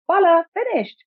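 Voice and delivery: proudly finishing the job; cheerful high "voila"; exclaiming. A narrator's reading. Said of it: "Mama exclaimed".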